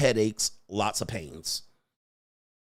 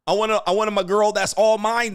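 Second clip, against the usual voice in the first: higher, louder mock girlfriend complaint; mock whiny girlfriend; 7 semitones higher, 4 dB louder than usual. Commentator mocking the crying girlfriend, whiny. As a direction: whine it like the upset girlfriend. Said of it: "they said".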